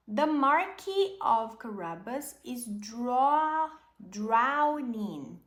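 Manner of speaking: loud, slow shouted alarm. Acted. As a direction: cry out to the king, slow and loud. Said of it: "Puss shouts".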